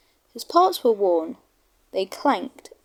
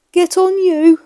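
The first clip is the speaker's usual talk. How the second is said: louder, higher cross shove; 9 semitones higher, 9 dB louder than usual. Acted. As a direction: snap at Toby as he bumps him. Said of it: "he said crossly".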